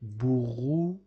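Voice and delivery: "Brouillard" said with no final D sound; "Brouillard" spoken as "brouillar", nothing after the R; silent D. Shown as a demonstration. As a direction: end "Brouillard" on the R and leave the D silent. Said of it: "D is not pronounced at the end of the word".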